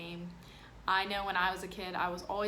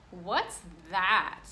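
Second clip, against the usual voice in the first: put-on louder kid voice asking; girl asking about new boy's food; curious girl; 6 dB louder than usual. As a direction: point and ask, puzzled. Girl questions strange food.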